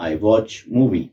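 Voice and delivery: I watch movie said very slowly, word by word; slow example. Shown as a demonstration. Teacher repeats the example slowly. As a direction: drag each word out for the class.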